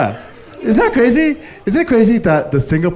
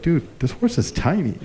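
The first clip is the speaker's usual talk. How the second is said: muttered, softer disbelief with a laugh; quiet aside; 2 semitones higher, 6 dB quieter than usual. Retold or imitated. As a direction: mumble it to yourself, amused. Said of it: "looking at this horse like".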